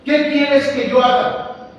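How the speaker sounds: trembling plea. Acted. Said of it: "Él temblando y temeroso dijo".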